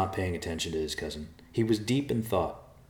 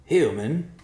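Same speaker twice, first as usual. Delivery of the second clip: louder, higher vulture call; 8 semitones higher, 8 dB louder than usual. Acted. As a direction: call down to the human. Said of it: "called out".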